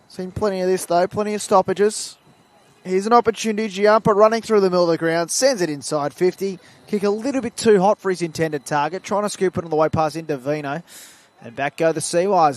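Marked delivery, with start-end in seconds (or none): 2.8-12.6 lifted football commentary voice; running match commentary; live play-by-play. Real, not acted. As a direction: call the attack as it unfolds.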